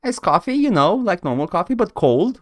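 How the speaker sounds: slightly lifted, chatty witness voice; a touch of girlish character voice; lightly voiced witness. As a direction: explain it as the witness on the stand.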